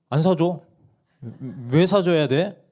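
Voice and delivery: mother refusing. Retold or imitated. Mom refuses child.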